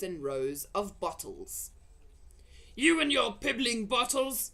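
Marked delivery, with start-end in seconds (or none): 2.8-4.5 loud, high sneering shout; scornful shout. Acted. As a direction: sneer at the bottles. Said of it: "he shouted".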